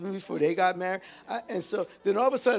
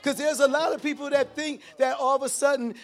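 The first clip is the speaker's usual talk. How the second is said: fervent preacher build; preaching at full force; 5 semitones higher than usual. Real, not acted. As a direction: drive it home to the congregation. Preaching climax, raised voice.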